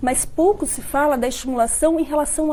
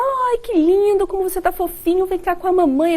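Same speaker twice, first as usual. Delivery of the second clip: put-on mother's baby talk; 6 semitones higher than usual. Mother cooing sweetly to her baby, high baby talk. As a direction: coo at the baby like a doting mum. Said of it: "falou agudo".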